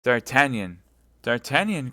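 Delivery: loud calling of the name; anguished cry; crying his name. Acted. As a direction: call out for him. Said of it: "cried Madame Bonacieux".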